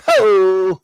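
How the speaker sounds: sudden loud bark; mock comic shout; Kinison-style yell. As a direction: blast it out. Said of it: "When he says that".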